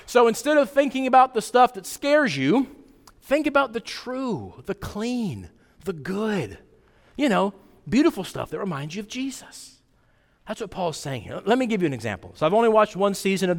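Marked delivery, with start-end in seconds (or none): 0.0-9.8 put-on simple, gentle kids' version that softens toward the end; talking to kids. Shown as a demonstration. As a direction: explain it like to children in Sunday school. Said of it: "Here's how I put it for the boys and girls".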